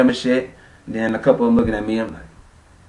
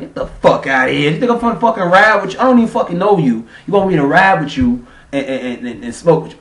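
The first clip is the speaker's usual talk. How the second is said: incredulous outburst; 5 semitones higher, 4 dB louder than usual. Retold or imitated. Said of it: "I'm like".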